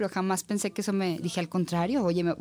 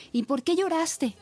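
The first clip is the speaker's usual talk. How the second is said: mock irritated teacher; 9 semitones higher, slower than usual. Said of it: "Ya se empezó a enojar".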